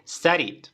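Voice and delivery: "studied" ending in ID; model pronunciation. Shown as a demonstration. Teacher demonstrates the past tense, careful model. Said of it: "pronunciación".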